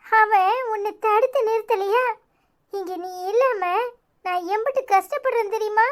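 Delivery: high, hurt plea; tearful reproach. Acted. Aunt to the niece who left home, tearful reproach. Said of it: "நீ அழுறத பார்த்தா எனக்கு மனசு சங்கடமா இருக்கு".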